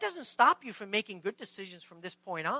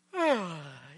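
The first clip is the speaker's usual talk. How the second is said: long, relaxed exhale; unbothered sigh; 5 semitones lower than usual. Acted. Jesus getting up from sleep in the storm, unruffled sigh. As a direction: sigh as if roused from a pillow. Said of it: "he's not freaked out at all".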